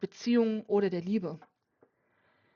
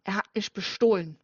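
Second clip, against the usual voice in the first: angry accusation; 5 dB louder than usual. Acted. Furious father accuses the friend.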